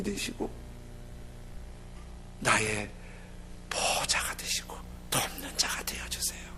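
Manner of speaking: soft intimate whisper; whispered prayer. Acted. Preacher prays quietly before the congregation. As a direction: pray it under your breath.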